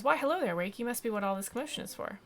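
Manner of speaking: high, loud opening, quickly running on; theatrical character hello; eccentric alchemist greeting. Acted. Bird hat weirdo welcomes Wake, theatrical greeting.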